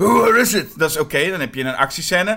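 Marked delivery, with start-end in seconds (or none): 0.0-0.7 sudden, loud, action-scene shout mid-action. Describing an action scene where Batman calls out: shouting in Batman voice. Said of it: "dat misschien hij een keertje dan roept".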